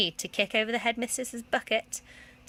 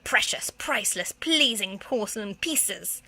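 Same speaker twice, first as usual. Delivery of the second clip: slow, pompous demand; each word weighed out in outrage; demanding museum director; slower than usual. Acted. Museum director grilling the school. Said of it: "demanded the museum director".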